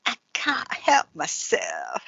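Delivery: breathy naughty whisper. Acted. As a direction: whisper it like a secret. Playful naughty confession repeated.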